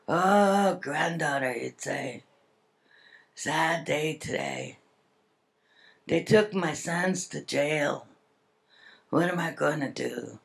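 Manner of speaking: Willie Frank. Retold or imitated. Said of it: "that's the way he'd talk".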